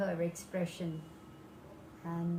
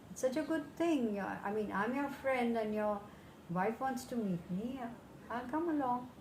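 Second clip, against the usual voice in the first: cheerful monkey; 6 semitones higher than usual. Acted. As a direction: chirp along happily, much higher. Cheerful monkey accepts invitation.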